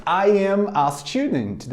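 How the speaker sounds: slow, carefully spaced model sentence. Shown as a demonstration. Teacher models the sentence slowly for students. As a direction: say it slowly for the class to copy. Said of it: "repeat after me".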